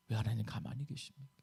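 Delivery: low, very soft question; hushed plea. Acted. Preacher as Habakkuk worn down by God's silence, hushed plea. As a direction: let the protest sink to a spent murmur. Prophet's plea sinks away.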